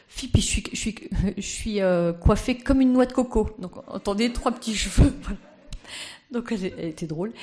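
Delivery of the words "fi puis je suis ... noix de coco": put-on light Danish accent, a bit higher; imitating a Danish lady's French. Speaker imitating Madame Lejeune's Danish accent to an audience. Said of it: "je peux pas m'empêcher de prendre l'accent de Madame Lejeune".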